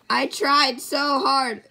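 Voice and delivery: monotone, robotic lyric; stiff, robot-like delivery. Shown as a demonstration. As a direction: say it evenly like a robot. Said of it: "Jeez, I sound like a robot".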